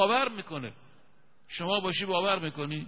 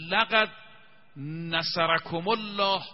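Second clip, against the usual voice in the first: measured Quran chant, stretched vowels; Quranic recitation; slower than usual. Shown as a demonstration. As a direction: intone the verse slowly like a reciter. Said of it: "من بخونم آیه رو".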